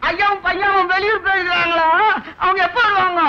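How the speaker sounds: mock-weepy, drawn-into-a-whimper question; tearful whining. Servant asking his mistress when master returns, tearful. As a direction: whine it as if about to cry. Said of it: "அதுக்கு ஏன் ஏன் அழற?".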